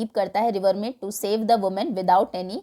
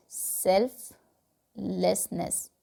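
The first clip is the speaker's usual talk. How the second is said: slow emphasis; 2 semitones lower, 6 dB quieter, much slower than usual. Shown as a demonstration. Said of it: "बिना खुद का सोचे".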